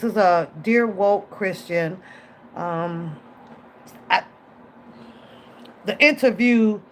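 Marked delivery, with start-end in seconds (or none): none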